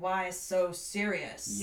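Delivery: slow, drawn-out menacing villain imitation; Joker. Housemate's drunken monologue retold, imitated Joker voice. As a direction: stretch it out, imitating a theatrical villain. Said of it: "go back into the Joker voice".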